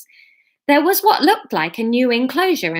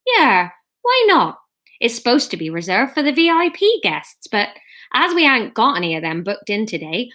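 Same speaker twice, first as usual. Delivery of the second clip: put-on Bristolian accent. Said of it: "let's make them Bristol".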